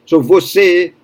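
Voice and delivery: você with a closed e, vo-SEH; você, closed final e. Shown as a demonstration. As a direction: say você with a tight closed e at the end. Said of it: "she pronounces it correctly".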